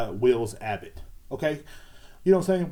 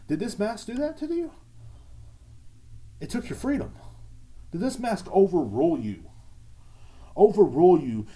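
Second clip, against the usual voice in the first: mock outrage; 7 semitones higher than usual. Mocking anti-mask people.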